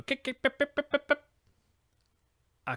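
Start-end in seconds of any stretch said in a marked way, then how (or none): 0.0-1.2 high chirping bird imitation; mock guinea hen chatter; guinea fowl calls. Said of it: "they all go".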